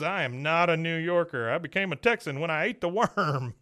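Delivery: mock-offended Hank; Hank protesting. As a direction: insist proudly. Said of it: "he goes".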